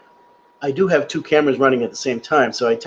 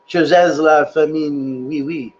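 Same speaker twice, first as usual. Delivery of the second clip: slow, halting try at French words; attempted French; slower than usual. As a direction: sound out the French carefully, then drop to "oui, oui". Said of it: "I don't know if I said that right".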